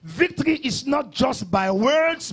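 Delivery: drawn-out, forceful pulpit delivery; emphatic preaching. Real, not acted. Pastor teaching believers about victory, emphatic preaching. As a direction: preach it with weight on key words.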